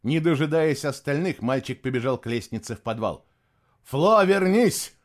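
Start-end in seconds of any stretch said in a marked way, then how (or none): 3.8-4.9 loud, high, drawn-out call. A narrator's reading. Adult calls the boy running off, loud and high. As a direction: call someone back urgently. Calling the fleeing boy back.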